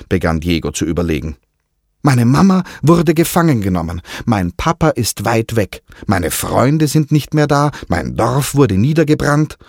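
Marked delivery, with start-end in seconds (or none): 2.0-9.6 put-on a boy listing his woes, fed up; boy complaining to his parrot, a touch whiny; frustrated complaint. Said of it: "klagte er frustriert".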